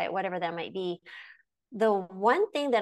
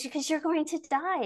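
little granddaughter voice; 8 semitones higher than usual. Retold or imitated. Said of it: "She goes".

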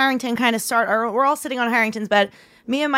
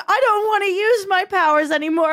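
raised, hammed-up dramatic whine; mock dramatic psychic; 5 semitones higher than usual. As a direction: parody a reluctant psychic. Mocking friend's psychic fear.

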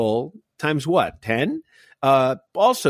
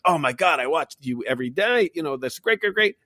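lightly imitated Croatian doorman, rising in pitch; Croatian accent; 4 semitones higher than usual. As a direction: gush with a touch of a Croatian accent. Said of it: "and the doorman's Croatian".

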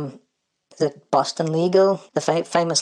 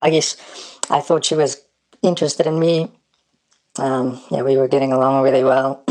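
disguised deep voice. Real, not acted. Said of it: "we've changed his voice too".

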